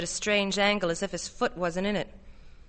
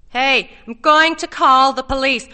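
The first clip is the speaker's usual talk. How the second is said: loud, raised warning; high, alarmed voice; desperate threat; 5 semitones higher, 11 dB louder than usual. A narrator's reading. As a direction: shout the threat to drive the intruder off. Connie threatens to phone police.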